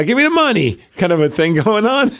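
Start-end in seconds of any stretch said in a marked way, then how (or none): 0.0-0.8 gimme the money voice. Retold or imitated. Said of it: "kinda like".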